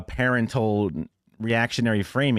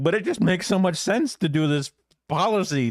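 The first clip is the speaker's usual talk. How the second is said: higher mock earnest voice; 7 semitones higher than usual. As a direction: parody a smug policy wonk. Mocking quote of opponent.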